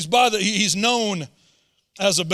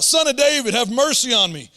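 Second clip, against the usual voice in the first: loud pleading cry, higher; yelled plea; 4 semitones higher, 5 dB louder than usual. Retold or imitated. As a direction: shout it for mercy. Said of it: "This is what he yelled out".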